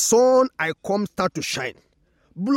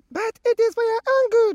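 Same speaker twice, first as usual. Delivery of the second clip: much higher, lightly sing-song sun; 4 dB louder than usual. Acted. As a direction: lift the voice high for the sun. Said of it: "And the sun answered".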